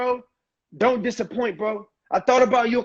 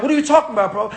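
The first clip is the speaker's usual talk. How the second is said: friend getting mad; 2 semitones higher, faster than usual. Shown as a demonstration. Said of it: "He's gonna start getting mad".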